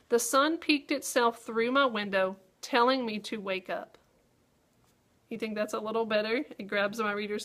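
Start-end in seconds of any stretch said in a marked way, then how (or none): 0.1-4.0 read-aloud of a fancier sentence. Shown as a demonstration. Teacher showing students a better lead, savoring each word. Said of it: "listen to this and see what you think".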